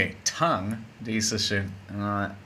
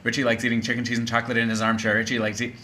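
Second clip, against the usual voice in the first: racing through a tongue twister for the class; fast tongue twister; much faster than usual. Shown as a demonstration. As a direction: rattle it off as fast as you can. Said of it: "say this as fast as you can".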